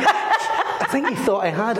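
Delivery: laughing through it, a little slow. Real, not acted. To the host, laughing at his own story. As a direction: let a real laugh carry the words.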